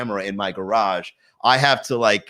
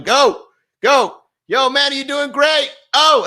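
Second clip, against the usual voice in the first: much higher, loud whooping hype guy; hype man impression; 13 semitones higher, 4 dB louder, slower than usual. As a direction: cheer like an overexcited hype man. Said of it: "another guy on the stream going".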